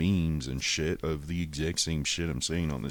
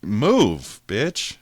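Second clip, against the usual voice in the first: mock shouted order; 5 semitones higher, 9 dB louder than usual. Ordering woman from the door.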